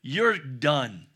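stern whispered warning; the Lord imagined whispering a final verdict. Retold or imitated. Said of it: "What if he said".

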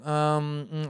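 soft, drawn-out stalling; hemming and hawing. Retold or imitated. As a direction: imitate a kid stalling for a word. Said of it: "he's hemming and hawing".

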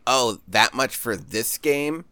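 slow, judgy creep voice; game store creep voice. Retold or imitated. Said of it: "your generic, uh, game store creep voice".

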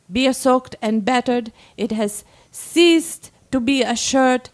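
measured reading with deliberate pauses; dramatic story reading. A narrator's reading. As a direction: read it aloud as a monologue, phrase by phrase. Reads a submitted story aloud.

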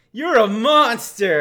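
slow, overdone dramatic line; mock melodramatic delivery; wicked stepmother. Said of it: "when she's like".

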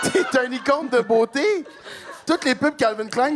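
excited shout. Real, not acted. Gushing praise, shouted.

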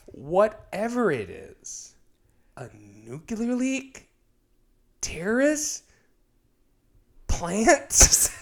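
slow, soft, halting line reading; overly dramatic pauses between words; bad acting. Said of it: "she delivers it like that".

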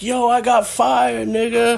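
high, slow, laughing brag; laughing boast. Retold or imitated. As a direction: crow it out through laughter. Cellmate voiced, laughing through.

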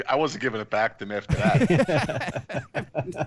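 laughing slowly. Real, not acted. Cracking up over the sweat rag.

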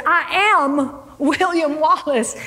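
emphatic, stretched "I am", mildly exasperated; lightly acted frustrated self-declaration; frustrated insistence. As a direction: insist on "I am" as if doubted.

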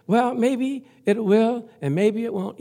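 slow, unsure, hedging drawl; mock wishy-washy doubt. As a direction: play it like a man who half believes. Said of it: "He didn't say".

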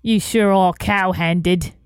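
slow mock Cockney insult; Cockney accent. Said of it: "in a Cockney accent".

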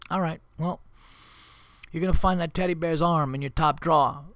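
lightly voiced mob-boss menace; calm, mock-threatening mob sit-down; mafia boss. Dad talking to kids like a mafia meeting, mild mock menace. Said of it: "as if I'm in, like, a mafia meeting".

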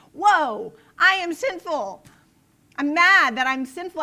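hammed-up self-reproach; mock frustrated outburst. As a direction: burst out, fed up with your own sin. Acted self-rebuke in a lament.

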